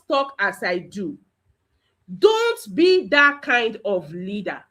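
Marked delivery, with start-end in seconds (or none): 2.2-4.6 slow, deliberate admonition; measured teacherly caution; emphatic warning. Real, not acted. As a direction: warn the class word by word. Teacher warns the class.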